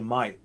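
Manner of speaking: "Mate" pronounced "might"; Australian vowel. Shown as a demonstration. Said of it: "And then you say".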